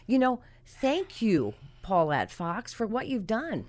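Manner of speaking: slow, choked-up thanks; tearful. Real, not acted. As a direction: hold back tears as you thank her. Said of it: "We're both crying".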